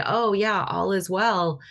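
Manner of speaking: empty, dismissive "all is well"; hollow reassurance. Shown as a demonstration. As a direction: say it breezily but don't mean it. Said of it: "but I'm not feeling it".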